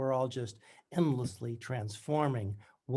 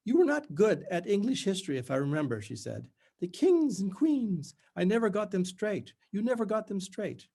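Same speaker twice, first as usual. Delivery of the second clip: high, loud, strained faux cheer through gritted teeth; strangulated bright voice; 5 semitones higher, 3 dB louder than usual. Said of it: "In her strangulated voice".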